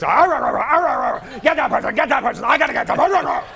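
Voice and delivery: growly barking dog voice; half-growled dog talk, rushed; dogs growling as people. Retold or imitated. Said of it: "they're in there just".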